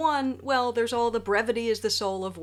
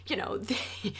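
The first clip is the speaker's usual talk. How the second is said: whispered aside; 6 dB quieter, faster than usual. Real, not acted.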